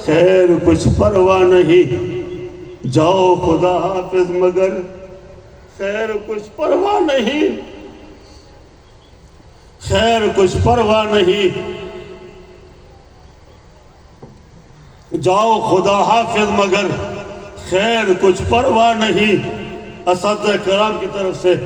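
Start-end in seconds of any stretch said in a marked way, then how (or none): 0.0-4.7 slow, measured poetic delivery; farewell verse recitation. Acted. 5.8-19.4 measured poetic refrain with long pauses; farewell verse recitation. Acted.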